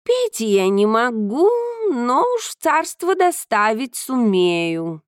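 a hint of a proud cat; lightly voiced cat. Cat speaking.

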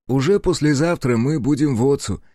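cheerful. Acted. Аяшики to companion by the campfire, cheerful. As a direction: say it brightly, with lifted pitch. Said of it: "весело сказала Аяшики".

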